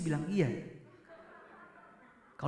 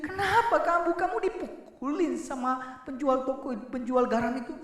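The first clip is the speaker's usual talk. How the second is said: higher, laughing mock mother; worried mother, laughing; 6 semitones higher than usual. Mother questions crying child, laughing through it. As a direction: play the fussing mom, half laughing. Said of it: "Lalu mamanya bilang".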